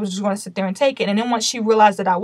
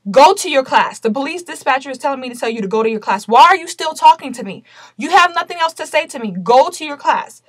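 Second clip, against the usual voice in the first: raised, firm command, sent her away; firm retold order; 3 semitones higher than usual. To the teacher hovering at the desk, a raised firm order.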